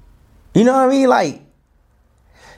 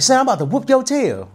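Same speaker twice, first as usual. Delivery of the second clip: imitating angry mom; 9 semitones higher, faster than usual. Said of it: "she was mad".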